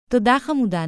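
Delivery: high, pleased thank-you; delighted thanks. A narrator's reading. Mother complimented on her dress by her daughter, delighted thanks. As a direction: lift the voice, flattered. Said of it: "נהנתה אמא דרלינג".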